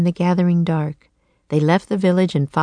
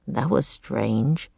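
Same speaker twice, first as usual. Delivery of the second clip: uneasy; 5 semitones lower, 6 dB quieter, slower than usual. A narrator's reading. Shiver up Jack's spine.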